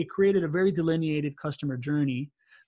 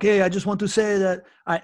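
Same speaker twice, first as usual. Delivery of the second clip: attempted Serbian accent, a bit raised and louder; butchered Serbian accent; 4 semitones higher, 5 dB louder than usual. Retelling a Serbian gentleman's heartfelt words, butchered Serbian accent. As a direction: lightly imitate a Serbian man's accent. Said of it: "when I do the accent".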